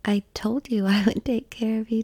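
ordinary talk

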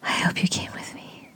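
panting, whispery afterglow; breathy words with long recovering pauses; still catching breath. Real, not acted. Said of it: "wait till my breathing calms down".

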